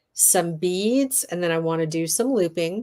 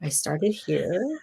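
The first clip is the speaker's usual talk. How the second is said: sexy voice; 3 dB quieter, slower than usual. Pretend. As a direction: draw it out, playfully seductive. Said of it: "I'm gonna talk in my sexy voice".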